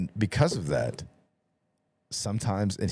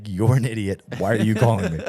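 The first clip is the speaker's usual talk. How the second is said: louder, fed-up scold; exasperated scolding; 5 dB louder than usual. Retold or imitated. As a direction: yell at him for calling. Scolding friend on phone.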